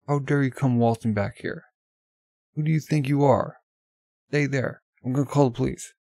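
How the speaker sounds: outraged store owner yelling; angry shopkeeper. Acted. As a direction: scold the intruder. Angry shopkeeper confronts intruder.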